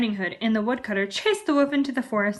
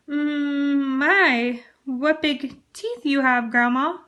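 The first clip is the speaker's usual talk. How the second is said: stuttered; 4 semitones higher, 3 dB louder, much slower than usual. Acted. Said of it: "stuttered Little Red Riding Hood".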